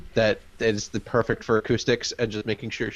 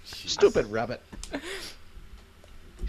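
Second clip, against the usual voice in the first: slow, higher Irish leprechaun voice; Irish accent; 6 semitones higher, 7 dB quieter, much slower than usual. Pretend. Leprechaun complaining about rabbit.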